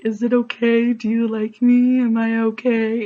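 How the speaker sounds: retelling her nervous questions to him; anxious pleading. Retold or imitated. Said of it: "I kept asking him".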